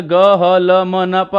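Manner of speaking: ग, ह, ल, म, न, प said one by one as Hindi sounds; Hindi letter sounds. Shown as a demonstration. Teacher sounding out ग, ह, ल for students. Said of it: "इनका उच्चारण क्रम से".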